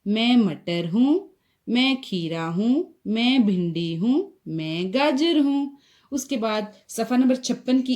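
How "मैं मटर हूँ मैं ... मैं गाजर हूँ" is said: put-on 1 reading aloud to children. Shown as a demonstration. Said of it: "हम फिर से पढ़ते हैं".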